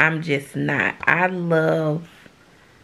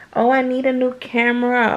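lighter, higher offhand request; breezy higher voice, asking her husband for gear; casual ask; 6 semitones higher than usual. Retold or imitated. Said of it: "I could say".

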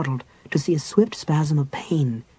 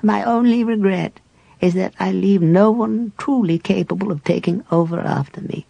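put-on old cleric at peace with dying; frail dying cleric; 6 semitones higher than usual. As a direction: reminisce gently facing death.

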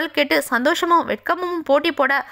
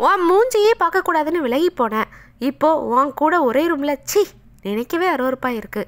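disgusted outburst. Acted. Husband lashing out at the wife he loathes, disgusted outburst. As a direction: spit it out at her in revulsion.

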